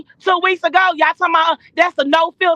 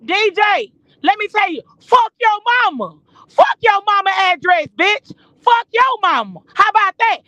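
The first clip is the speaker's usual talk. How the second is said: higher, heated tirade at the rival; heated cursing; 4 semitones higher than usual. Real, not acted. Cursing at the rival over the address, heated and higher. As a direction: let the anger rise and spit it out.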